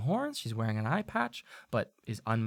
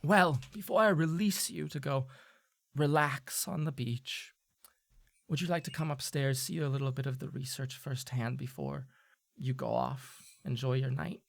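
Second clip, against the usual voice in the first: sly invitation; 5 dB quieter than usual. Acted. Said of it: "she'll say".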